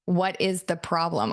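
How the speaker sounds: "What IS the problem", low and measured; stress on IS. Retold or imitated. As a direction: lean on "is", keep "the problem" neutral. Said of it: "I didn't say, "What's your problem?".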